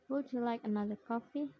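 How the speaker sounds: polite question dipping then rising to COFFEE; fall-rise tune ending up on COFFEE; fall-rise intonation. Shown as a demonstration. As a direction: let the pitch dip, then lift on COFFEE. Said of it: "fall rise intonation".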